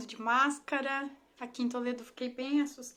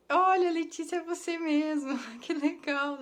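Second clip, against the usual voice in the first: excited recognition; 4 semitones higher, 6 dB louder than usual. Real, not acted. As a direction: call out to the classmate, delighted. Classmate confirms it's her.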